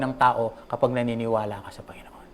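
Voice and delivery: whispered conviction. Real, not acted. Preacher whispers a point to the congregation. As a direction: hush it, intimate and earnest.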